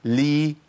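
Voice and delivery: "لي" as an isolated syllable, L going into i; lam with kasra. Shown as a demonstration. Teacher demonstrates each vowelled lam, L with kasra. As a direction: model "لي" neatly on its own. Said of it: "المحركه بكسر".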